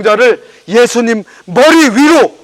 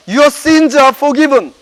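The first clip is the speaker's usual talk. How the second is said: slow solemn quote; 3 semitones higher, much slower than usual. Acted. Jesus's words quoted in English.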